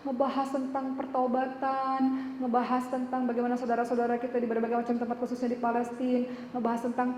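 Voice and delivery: teary, awed churchgoer explaining her tears; moved worshipper. Retold or imitated. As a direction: relive how the prayer touched them. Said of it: "saya tanya, "Yang nangis kenapa nangis?".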